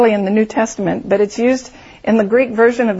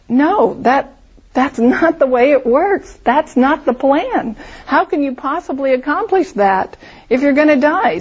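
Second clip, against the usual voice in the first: incredulous protest; 4 semitones higher than usual. Retold or imitated. We'd all go, protesting disbelief.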